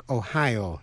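Ohio as "o-HI-o"; stress on second syllable. Shown as a demonstration. Teacher repeating the contrast for listeners, Ohio stressed second. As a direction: punch the HI in Ohio. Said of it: "nhấn mạnh vần nhì".

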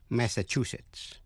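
"Massachusetts" stressed on CHU, the third syllable; slowly, mass-a-CHU-setts for "Massachusetts". Shown as a demonstration. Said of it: "Nhấn mạnh vào vần thứ ba". ("Massachusetts" nhấn vào vần thứ ba CHU)

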